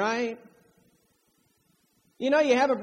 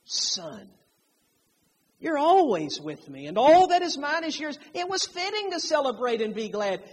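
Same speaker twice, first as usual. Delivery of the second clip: affectionate father; 3 semitones higher, 3 dB louder than usual. Retold or imitated. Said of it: "That's an affectionate term".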